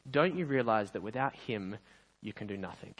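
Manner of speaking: mild, understated motherly reproof; gentle and wise. Acted. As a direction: calmly set the child straight. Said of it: "she said very gently and very wisely".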